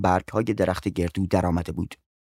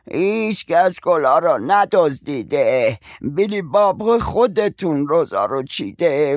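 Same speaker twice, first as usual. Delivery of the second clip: scoffing neighbour; 4 semitones higher, slower than usual. Acted.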